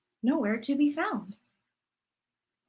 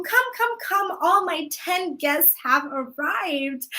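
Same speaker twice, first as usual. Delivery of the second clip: cheerful call; 2 semitones higher, slower than usual. Acted. Granddaughter announces guests.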